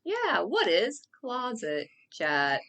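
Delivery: slow, robotic monotone delivery. Pretend. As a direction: talk like a stiff machine. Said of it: "you sound so robotic".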